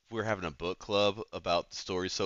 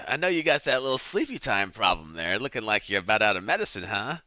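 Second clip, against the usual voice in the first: noir tough guy; 4 dB louder than usual. Pretend. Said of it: "I don't know why I'm talking like this".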